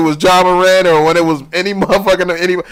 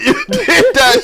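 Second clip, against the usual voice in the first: slow, high, laughing call-out; laughing accusation; much slower than usual. Real, not acted. Friend laughing as he accuses the player, slow laughing call-out. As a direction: drag it out through a laugh.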